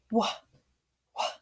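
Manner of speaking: w- as a short bare wh puff, repeated; just the sound w-, a pause between; isolated letter sound. Shown as a demonstration. Teacher asking which two letters say it, isolated sound. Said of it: "What two letters say".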